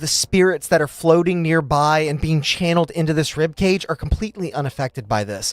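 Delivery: slow, measured scene-setting; game master narration. Acted. Game master describing spreading energy to players, measured narration. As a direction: draw out the description deliberately.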